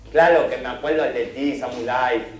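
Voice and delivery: L for R, "samulai", "oloroso" said "ololoso"; mock old man swapping every r for l; old hermit mocking voice. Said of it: "el viejo le dijo". (viejo burlón que cambia la erre por ele)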